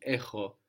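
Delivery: hard ch at the back of the mouth in "echo"; hard Greek chi. Shown as a demonstration. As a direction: say "echo" with a throaty ch, not a k. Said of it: "and then hard".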